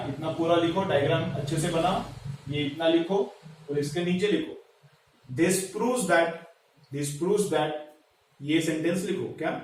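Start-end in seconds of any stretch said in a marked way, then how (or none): 5.3-7.7 slow, measured dictation for note-taking; dictating teacher, phrase by phrase. Acted. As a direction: read it out slowly for students to copy. Dictates a sentence to write.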